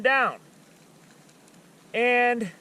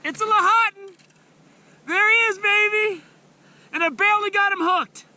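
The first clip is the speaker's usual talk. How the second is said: high, loud thrilled chatter; buzzing after the catch; excited; 6 semitones higher, 6 dB louder than usual. Real, not acted. Landing and releasing the fish.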